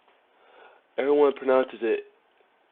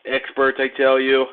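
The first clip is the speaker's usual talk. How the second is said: Trump impersonation; 4 dB louder than usual. Retold or imitated. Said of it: "With my best Trump impersonation".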